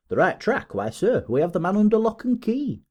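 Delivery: high, emphatic crowing; triumphant retort. A narrator's reading. Detective boasting the man is caught, high triumphant retort. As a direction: toss the doubt back with soaring pitch.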